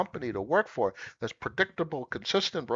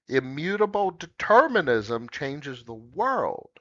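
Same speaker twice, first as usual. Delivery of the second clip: ordinary talk, nothing marked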